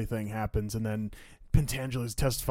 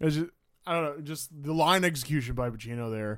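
usual speaking voice

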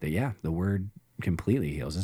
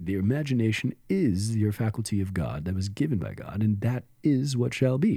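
unctuous, smooth lecturing tone laid on thick. Imitating a mystic quoted from his talks: imitating Neville Goddard's unctuous voice. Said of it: "he had an unctuous voice like this".

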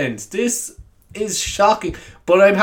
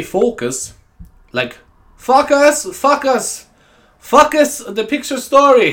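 put-on slow, drawn-out, pitched-up German accent; 6 semitones higher than usual. Quoting what a woman used to say to the speaker, in a put-on german accent. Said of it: "I'm doing your accent".

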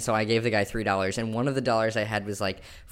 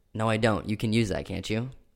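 put-on firm, resolute tone. Asked to reenact refusing a man who demanded another dollar, retelling own firm refusal. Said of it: "a realistic impression of what you were like".

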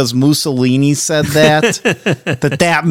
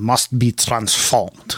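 short, low, quiet and soft delivery; 5 semitones lower, 6 dB quieter than usual. Showing a better version of the quote: Klaus Schwab impression. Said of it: "I think mine's a little bit better".

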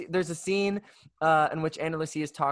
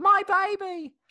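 shrill, high, loud squealing cry; 5 dB louder than usual. Explaining a disliked character by imitating her: imitating Claire. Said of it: "'cause she's always like".

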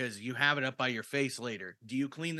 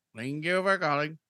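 mock Indian telemarketer accent; 3 semitones higher, 6 dB louder than usual. Joking with a friend, the speaker answers like a phone telemarketer: mock Indian telemarketer accent. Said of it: "looking like an Indian fucking phone telemarketer".

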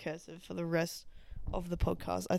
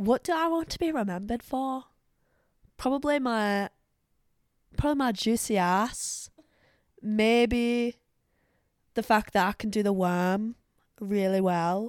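put-on Scottish accent drifting northern English, raised voice; 3 semitones higher, 7 dB louder than usual. Speaker, after picking an accent, says what they want to be remembered for in a scottish accent. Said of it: "A Scottish accent".

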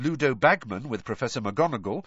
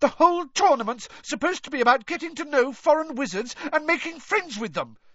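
piercing, shrill, very high-pitched delivery. A girl arguing with a friend about the tournament answers him: shrill. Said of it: "said Hermione shrilly".

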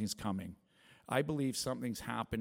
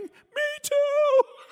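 mock very high, loud, tearful wailing cry; 14 dB louder than usual. Retelling a man's answer after asking if the speaker is Christian, imitating someone bawling. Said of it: "starts bawling".

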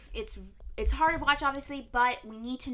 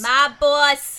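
put-on New Jersey mobster accent; 4 semitones higher, 14 dB louder than usual. Announcing the strain of the day in a put-on New Jersey accent. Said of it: "We're doing an accent because".

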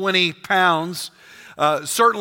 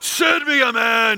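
very slow, big-voiced, drawn-out giant voice; 4 semitones higher than usual. Imagining Goliath calling out across the valley: Goliath in big bellowing voice. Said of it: "Big bellowing voice".

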